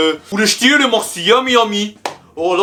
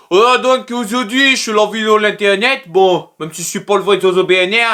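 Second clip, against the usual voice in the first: higher mock Jojo voice; Jojo impersonation; 3 semitones higher than usual. Jojo introducing his tutorial to viewers. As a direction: play the cocky Jojo.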